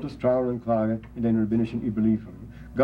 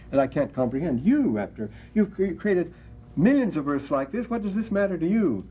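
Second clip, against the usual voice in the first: mildly incredulous, higher-pitched questioning; nonplussed; 5 semitones higher than usual. Retold or imitated. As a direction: quote someone who just can't understand, voice rising high. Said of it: "He's completely nonplussed".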